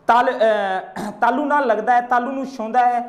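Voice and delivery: ordinary delivery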